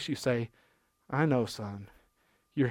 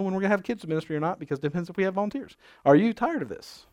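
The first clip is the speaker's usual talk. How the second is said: fast TV ad pitch voice; infomercial voice; 4 semitones higher than usual. Acted. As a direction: pitch it like a late-night ad. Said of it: "this is gonna sound like an infomercial".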